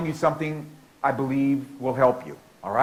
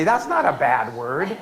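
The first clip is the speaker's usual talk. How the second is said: imitating kids; slower than usual. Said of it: "And kids always say".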